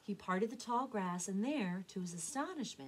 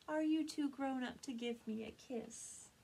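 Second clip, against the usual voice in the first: higher, tender mother duck; tender mama; 5 semitones higher than usual. Acted. Mama surprising her son, tender. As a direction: ask it lightly and fondly.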